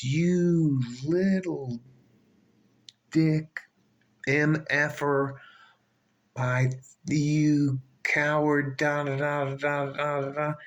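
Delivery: slow, drawn-out mock snarl of a woman snapping; a hint of her spitting insults at the guard, slowed right down; snapped insult. Woman snapping at the security guard, mild mock snarl. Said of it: "that is when she snapped".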